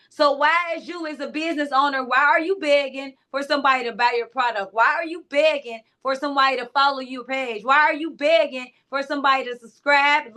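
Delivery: usual speaking voice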